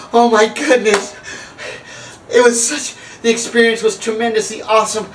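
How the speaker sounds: hammed-up blissful raving; mock awe. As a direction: gush as if overwhelmed by wonder. Retelling her rapture after the trip.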